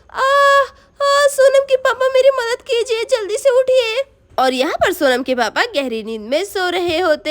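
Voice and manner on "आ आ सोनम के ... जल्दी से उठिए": high, loud desperate call for help; frantic call to a sleeping husband. Acted. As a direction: shout for someone to wake up. Mother cries out for help.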